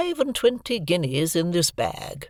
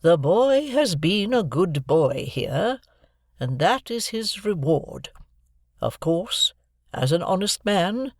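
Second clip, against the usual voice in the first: slow, every word weighted; distinct, emphatic; 5 semitones higher, slower than usual. A narrator's reading. Miss Havisham telling Joe the reward, distinct and emphatic. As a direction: spell it out firmly for Joe. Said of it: "in a distinct, emphatic voice".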